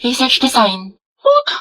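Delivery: high, shocked outburst. Acted. Shocked at silly research design.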